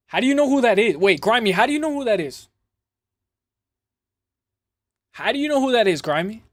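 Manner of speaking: can't believe chat knows her; surprised disbelief. Real, not acted. Spots a viewer knowing someone.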